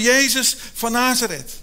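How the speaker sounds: calling out to Jesus by the roadside; blind man calling out. Retold or imitated. Blind beggar calls out to passing Jesus, loud call. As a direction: raise the voice to reach across a crowd. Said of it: "Hij begint te roepen".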